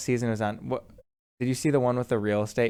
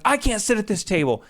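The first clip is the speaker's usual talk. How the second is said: put-on drunk guest; 9 semitones higher than usual.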